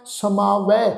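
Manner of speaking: ਸਮਾਵੈ ending in open "ai", not "e". Shown as a demonstration. Teacher shows congregation the dulavan tone, open ai on ਸਮਾਵੈ. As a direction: open the final vowel of ਸਮਾਵੈ to ਐ. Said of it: "ਦੁਲਾਵਾਂ ਦਾ ਪਾਠ ਆ".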